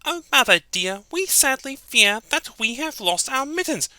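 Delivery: high, whimpering little kitten; crying kitten. Acted. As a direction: plead like a tearful kitten to its mother. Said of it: "they began to cry".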